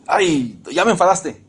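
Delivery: mock exasperation, pitch lifted; fed-up tone. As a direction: act out an annoyed husband. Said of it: "el tono, la, la actitud". (tono de fastidio, imitado)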